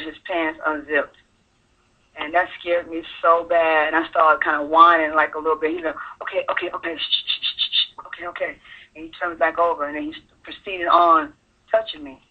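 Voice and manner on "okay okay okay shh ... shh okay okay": hurried hushing, slightly softer; quick okays broken by unvoiced shushes; imitated hushing. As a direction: imitate shushing a whining child. Cousin hushing a whining child.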